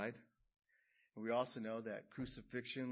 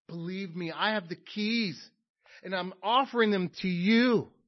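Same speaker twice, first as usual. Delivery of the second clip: building from plain to a loud, higher cry; rising proclamation; 6 semitones higher, 13 dB louder than usual. Acted. Preacher voicing Jesus offering the keys to listeners, loud rising proclamation. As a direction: swell into a triumphant offer.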